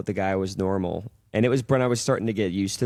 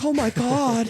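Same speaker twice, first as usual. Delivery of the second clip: mock crying; 13 semitones higher, slower than usual. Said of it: "Guy starts crying".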